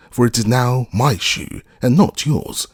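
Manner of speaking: spiteful witch; witch retorting. A narrator's reading. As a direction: snap back like a smug witch. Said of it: "retorted the witch".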